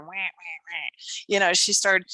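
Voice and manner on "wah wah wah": mock whining noise. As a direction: imitate someone droning complaints. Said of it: "the first thing that happened is she started".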